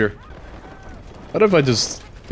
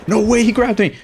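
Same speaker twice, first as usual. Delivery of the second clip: surprised; 11 semitones higher than usual. Real, not acted. Grabbed by enemy hook.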